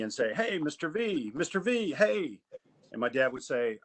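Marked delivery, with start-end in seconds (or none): 0.3-2.4 high, bright-eyed eager calling out; giddy kids. Retold or imitated. Teenagers running up to greet Mister V, giddy and high. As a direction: excitedly greet him like a beloved mentor. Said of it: "almost giddy".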